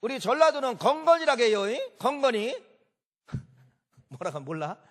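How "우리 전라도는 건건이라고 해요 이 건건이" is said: higher, louder, playful 건건이 said like a Jeolla local; lightly put-on Jeolla voice, proud of the word 건건이; mock Jeolla speaker. Preacher playing a Jeolla local to the congregation, lightly voiced, higher and louder. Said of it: "저 전라도는 뭐라고 합니까?".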